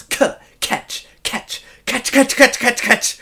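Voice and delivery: "catch" hit hard on the k, building from breathy to loud; emphatic cursing. Shown as a demonstration. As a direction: bark "catch" like a swear word. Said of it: "catch sounds a little more emphatic".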